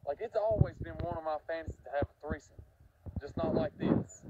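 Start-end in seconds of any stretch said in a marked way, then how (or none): 3.2-4.2 much higher and slower wail; exasperated punchline. Real, not acted. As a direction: squeal the punchline in dismay. Punchline about the threesome.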